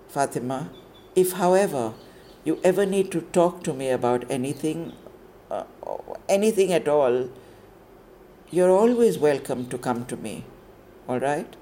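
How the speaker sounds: gentler warden; soften, offer help kindly. Acted. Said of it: "a softening in the warden's voice".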